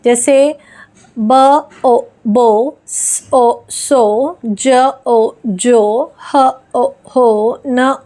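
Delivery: teacher modelling phonics blending; spelling out sounds for a child; sound-by-sound blending demo. Shown as a demonstration. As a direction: sound out each letter, then blend the word. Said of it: "अब यहाँ पे देखिए".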